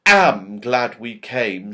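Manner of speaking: delighted. Acted. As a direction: savour how glad she is. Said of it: "said Beth in delight".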